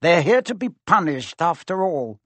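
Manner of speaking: stern caretaker's chill; coldly. A narrator's reading. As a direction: put him in his place. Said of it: "said Filch coldly".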